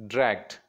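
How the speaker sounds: "dragged" as one short beat; one-breath syllable. Shown as a demonstration. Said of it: "you can pronounce it in one breath".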